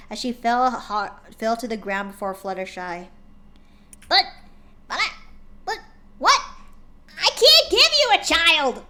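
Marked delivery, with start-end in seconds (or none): 4.1-8.8 loud, high panicked outburst; panicked cry. A narrator's reading. Pony panicking at her partner's dream, loud and high. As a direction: blurt it out in alarm. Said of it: "cried out in a panic".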